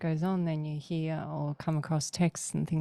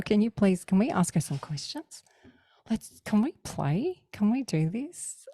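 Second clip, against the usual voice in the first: higher, coaxing run of requests; playful pleading; 5 semitones higher than usual. Retold or imitated. Speaker begs to ask Neff questions, retold pleading.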